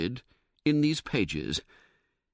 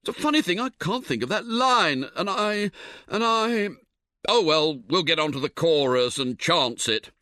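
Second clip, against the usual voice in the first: a lightly voiced, higher flustered Harris losing his lines; fussy Harris fumbling; 5 semitones higher, 4 dB louder than usual. Harris at the party, forgetting his song, flustered and higher. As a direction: bluster as if the words just slipped away.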